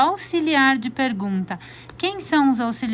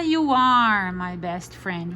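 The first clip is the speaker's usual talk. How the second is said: slow demo; 3 semitones lower, slower than usual. Shown as a demonstration. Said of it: "se for uma frase afirmativa".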